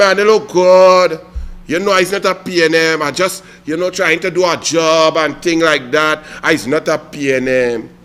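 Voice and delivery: lightly voiced sheepish politician. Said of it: "and you tell me".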